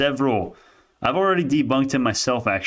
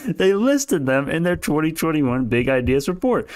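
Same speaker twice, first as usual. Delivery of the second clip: higher, slower, spelled out for a slow learner; exasperated repeat; 5 semitones higher than usual. Real, not acted. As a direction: hammer the fact home, fed up. Repeating fact, exasperated at Robbie.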